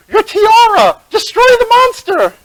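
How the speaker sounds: high, loud urgent command; yelling. A narrator's reading. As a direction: cry out an order as a cartoon sidekick. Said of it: "And Luna yells out".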